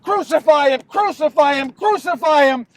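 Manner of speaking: mild retold mob shout; crowd shouting. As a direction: imitate a chanting crowd, not full-out. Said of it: "they began to shout".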